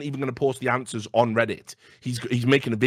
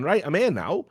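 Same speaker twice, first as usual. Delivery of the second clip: confronting; 8 semitones higher than usual. Retold or imitated.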